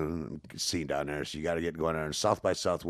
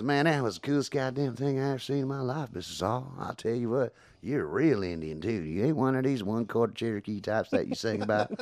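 McConaughey impression; 4 semitones higher than usual. Musician imitating actor telling him he's real. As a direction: do a laid-back Texas movie-star voice.

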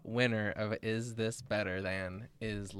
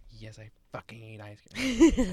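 emphatic; 9 dB louder than usual. Retold or imitated. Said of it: "Like that".

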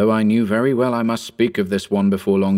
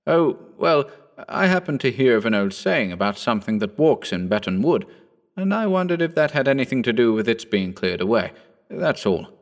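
put-on young Phillipson; 2 semitones higher than usual. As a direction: lift the voice into the eager young squire. Phillipson explains himself.

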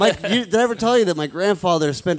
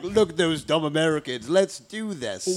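European tourist impression; 2 semitones lower, 4 dB quieter than usual. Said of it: "That's a good impression".

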